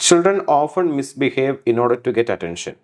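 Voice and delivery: put-on Children often misbehave, each word drawn out; slow example read. Shown as a demonstration. Teacher reads the example sentence slowly to students. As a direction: dictate it slowly. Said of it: "slow example read".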